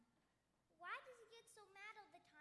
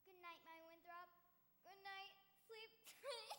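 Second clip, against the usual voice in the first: tender. Acted. Says goodnight to the star.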